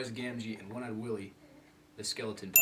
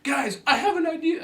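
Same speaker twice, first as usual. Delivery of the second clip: put-on Asian accent; 11 dB louder than usual. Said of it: "I can't do the Asian accent".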